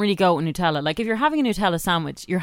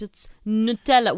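Nutella as a continental ad voice says it; light continental accent on Nutella; French or Italian accent. Retold or imitated. Explaining how the ads say it, light French-Italian accent. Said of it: "it's usually a French or an Italian person".

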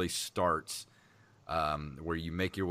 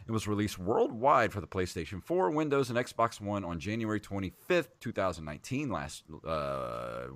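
announcer-like game summary, lifted at phrase starts; review intro read-out; 3 semitones higher, 3 dB louder than usual. Acted. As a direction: read out the game facts with projection.

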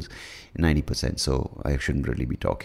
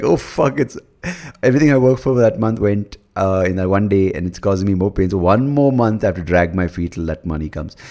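higher and louder, a mock panicked rant at yourself; panicked inner voice; 4 semitones higher, 6 dB louder than usual. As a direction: replay the payday-gone panic, half joking. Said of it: "that one which looked like".

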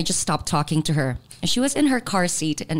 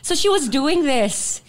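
laughing while talking; 7 semitones higher than usual. Real, not acted. Laughing retelling.

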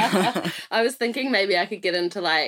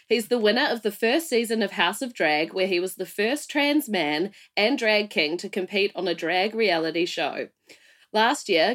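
radio voice. Acted. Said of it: "You have such a great radio voice".

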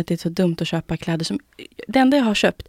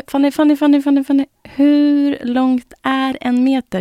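imitating boyfriend's disbelief; 7 semitones higher, 7 dB louder than usual. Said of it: "Han bara".

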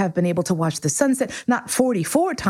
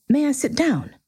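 small, higher-pitched timid question; timid inquiry; 8 semitones higher than usual. A narrator's reading. Little prince asking the king for a seat, timid. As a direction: ask permission shyly. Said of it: "came now a timid inquiry".

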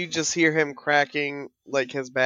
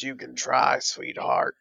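lightly rasped monster reply, dropping very low at the end; low, raspy bugbear; 2 semitones lower than usual. Acted. Game master as bugbear answering a threat, low raspy voice. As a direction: let the last word sink into a low rasp. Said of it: "he goes in a low, raspy voice".

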